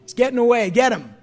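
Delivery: hammed-up eager cheering for judgment; mock bloodthirsty cheering. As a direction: egg God on like a spectator. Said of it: "Would I have been like".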